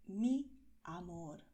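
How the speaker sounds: "Mi amor" slow and loving; tender. Shown as a demonstration. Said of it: "de una manera cariñosa". (con cariño, despacio)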